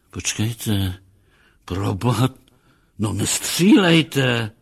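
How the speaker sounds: broken phrases, last one drawn out and loud; alarmed plea. Acted. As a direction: beg for your life, mildly acted. Captain pleads not to be shot.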